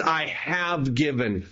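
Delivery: "I have given" said slowly, leaning on "have given"; stress on have given. Shown as a demonstration. Preacher contrasting "I have given" with "I will give", slow and firm. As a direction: land the past tense of "I have given". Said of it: "And now he says".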